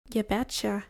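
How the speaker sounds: lightly imitated friendly Midwestern accent; a touch of folksy American Midwest. Shown as a demonstration. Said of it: "Then there's the Midwest accent".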